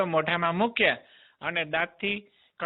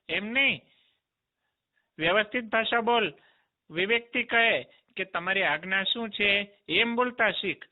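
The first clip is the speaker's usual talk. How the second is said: put-on bossy child; 3 semitones higher than usual. Boy scolds demon about manners.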